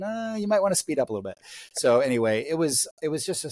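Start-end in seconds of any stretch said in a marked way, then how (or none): 0.0-1.4 mock wife voice. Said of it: "She said".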